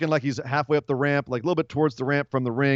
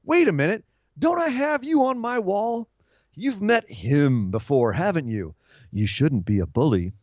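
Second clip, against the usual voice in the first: imitating Bray Wyatt; 3 semitones higher than usual. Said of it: "he cuts a promo where he says".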